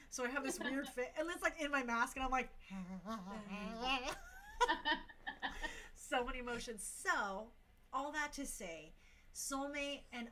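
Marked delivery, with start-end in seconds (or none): 2.5-5.9 mock sobbing that tips into laughter; imitated happy crying. Dancer crying happily in her mask, acted out with laughs. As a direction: act out muffled laugh-crying. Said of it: "but I'm also crying".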